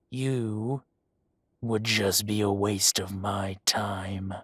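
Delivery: whispered cold threat; menacing whisper. Acted. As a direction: breathe the threat in his ear. Gang leader menacing the doctor.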